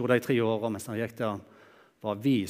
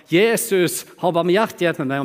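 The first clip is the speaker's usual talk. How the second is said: loud, higher cry of Jesus' name; shouting for mercy; 5 semitones higher, 5 dB louder than usual. Acted. Blind beggar crying out to Jesus, loud plea. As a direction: call out over the crowd, begging. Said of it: "og så begynner han å rope".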